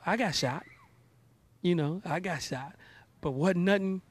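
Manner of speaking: mock stand-up build, ending on a yelled "It hurt"; Cat Williams skit. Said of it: "he was doing a skit one time".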